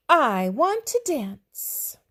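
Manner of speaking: a dinosaur dreaming out loud, slow and loud; dinosaur's slow wish. Acted. Dinosaur voiced in story.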